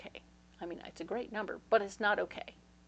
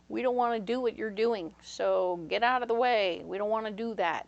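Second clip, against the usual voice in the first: naysayers quote; 7 dB louder than usual. Retold or imitated. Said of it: "They're telling you".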